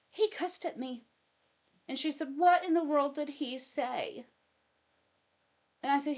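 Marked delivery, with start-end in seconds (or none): 0.1-1.0 higher, pouty complaint; mock wounded. Wife insisting to her mom that he cussed, pouting. 2.4-4.3 higher, louder worried mother; alarmed mom. Retold or imitated. Mom demanding what the husband said, alarmed.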